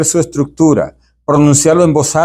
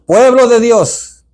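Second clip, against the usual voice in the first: higher, slow, proclaiming as Moses; Moses' voice; 8 semitones higher, much slower than usual. Shown as a demonstration. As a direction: call out "Pueblo de Dios" slowly like a prophet. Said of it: "cambia un poquito el tono". (voz de Moisés proclamando, aguda y lenta)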